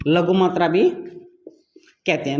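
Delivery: drawn out slowly, each word leaned on; slow teacherly drawl on लघु मात्रा; slow emphatic repeat. Shown as a demonstration. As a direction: stretch it out so it sticks.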